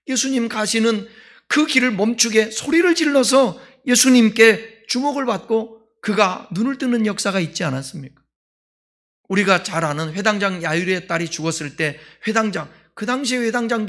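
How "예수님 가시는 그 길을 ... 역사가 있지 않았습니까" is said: normal talking voice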